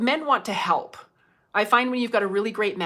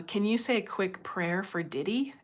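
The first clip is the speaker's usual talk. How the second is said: whisper; 5 dB quieter than usual. Real, not acted. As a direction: read it in a whisper. Reading a viewer comment.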